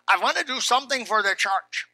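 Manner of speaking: weak attempt at a German accent; lightly attempted, badly faked German accent; terrible German accent. Pastor quoting the short German man offering help, terrible German accent. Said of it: "That's a terrible German accent".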